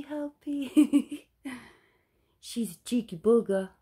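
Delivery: laughing. Real, not acted.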